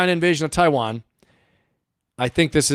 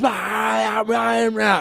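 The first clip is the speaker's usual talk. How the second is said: imitated screaming; 6 semitones higher, much slower than usual. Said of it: "he literally just goes".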